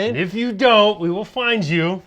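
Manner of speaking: mock-threatening British accent; badly faked British gangster accent; attempted British accent. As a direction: play along in a wobbly British accent. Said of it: "should we be talking like this".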